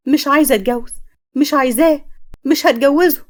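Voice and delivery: refusing the wedding, rising in protest; upset bride. Acted. Bride refuses to marry her fiancé, in a mildly acted fit of anger.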